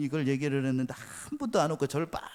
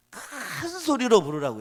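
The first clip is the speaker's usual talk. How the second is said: raised, emphatic preaching call; loud; 8 semitones higher, 5 dB louder, slower than usual. Acted. Preacher urging the congregation to shout loud. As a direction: push it out loud. Preacher quoting Elijah's taunt.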